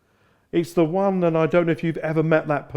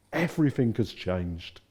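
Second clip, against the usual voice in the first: softly spoken; Jesus speaking quietly to Peter; gentle; 5 semitones lower, 4 dB quieter than usual. Acted. Jesus telling Peter gently, soft and low.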